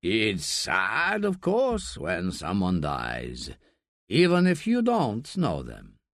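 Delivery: a slight crack of grief, slow and halting; holding back tears as he speaks, mildly; a touch of a break in the voice. Acted. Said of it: "With a crack in his voice".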